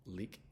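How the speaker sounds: "Leak" with a firm L at the start; stronger front L. Shown as a demonstration. Teacher showing the stronger L at the front, firm L. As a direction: lean on the opening L of "Leak". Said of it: "stronger L at the front".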